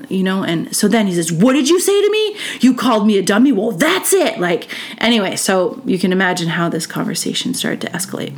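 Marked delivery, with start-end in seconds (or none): 1.3-4.4 high, incredulous mock outrage; retold raised voice. Teacher hears the student call him a dummy, mock outrage. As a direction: mimic an indignant teacher, pitch jumping up. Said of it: "the teacher's voice raised".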